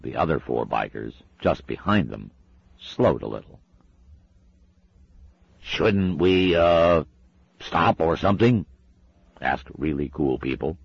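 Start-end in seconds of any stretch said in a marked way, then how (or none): 5.6-8.6 nervous biker. Acted. Nervous biker asks the others.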